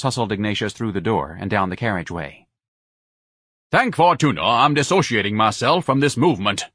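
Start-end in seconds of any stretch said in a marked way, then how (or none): 3.7-6.6 louder pompous declaration; thundered. Acted. Ignatius thundering as he is thrown out, pompous. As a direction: declaim it like a wronged prophet. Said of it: "Ignatius thundered".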